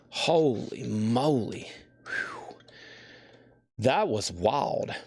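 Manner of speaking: slow, panting words between heavy breaths. Real, not acted. Seller catching breath after lifting an eighty-pound crate, panting. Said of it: "I'm out of breath after that".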